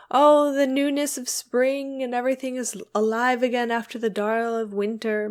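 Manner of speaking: lightly hammed-up gushing about spring; mock poet's rapture. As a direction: gush like a poet, in mockery. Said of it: "can writers not really write about spring".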